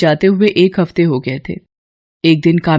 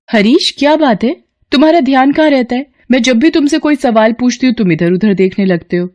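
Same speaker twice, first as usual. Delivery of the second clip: higher, scolding teacher voice; stern teacher Kamya; 6 semitones higher than usual. Acted. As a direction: tell off a distracted student. Narrator voices Kamya scolding student. (ऊँची आवाज़ में डांटती teacher)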